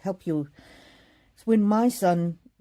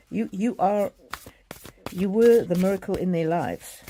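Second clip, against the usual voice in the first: a little louder, holding back tears; choked up; 2 semitones higher, 5 dB louder than usual. Real, not acted. Medium telling a grieving mother, choked up. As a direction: voice catching with real emotion, pushing through. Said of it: "sorry, I'm getting a bit choked up".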